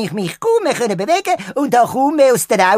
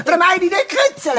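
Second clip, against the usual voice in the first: ticklish cry; 6 semitones higher than usual. Acted. Globi cries out, being tickled.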